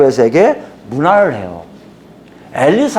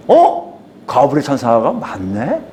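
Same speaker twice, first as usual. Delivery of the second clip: startled gasp of recognition; surprised realization; 5 semitones lower, slower than usual. Retold or imitated. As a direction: catch yourself realizing it's true. Mary realizing the angel was right.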